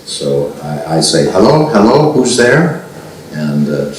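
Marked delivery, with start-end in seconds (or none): 1.3-2.8 calling into the phone. Retold or imitated. Calling into a silent phone line.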